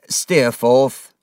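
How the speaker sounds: teacher calling over the noise; sharp call. A narrator's reading. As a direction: call him to order. Teacher calling pupil to order.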